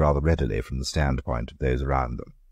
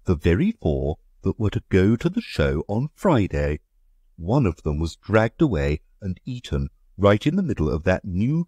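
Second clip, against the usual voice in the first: slightly raised, aggrieved country gentleman; Egbert, indignant; 5 semitones higher than usual. Acted. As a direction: complain of the slaughter, put out.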